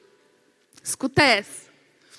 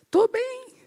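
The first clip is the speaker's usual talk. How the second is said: high-pitched little answer; squeaky reply; 11 semitones higher than usual. Retold or imitated. Husband answering doting wife, high-pitched. Marido responde ao carinho.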